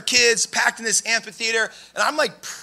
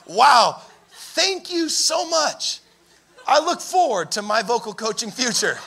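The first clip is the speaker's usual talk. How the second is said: fake-grateful, drawn-out politeness; mock-gracious, hiding what you really think; forced smile; slower than usual. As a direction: thank them through a pasted-on smile. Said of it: "I remember smiling and going".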